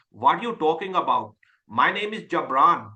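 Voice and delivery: put-on heavy, over-accented Asian English; strong Asian accent. Coach showing how Asians with strong accents talk, strong Asian accent. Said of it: "we have, like, these strong accents".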